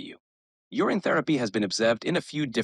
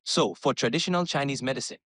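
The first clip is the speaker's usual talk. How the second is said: West African pidgin. Pretend. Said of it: "speaking in West African pidgin".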